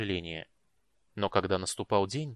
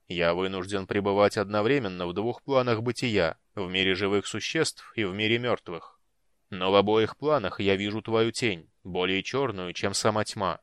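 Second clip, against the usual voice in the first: echoing otherworldly death knight; hollow voice of a cursed knight; deep booming voice; 3 dB louder than usual. Acted. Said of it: "глубоким, гулким голосом".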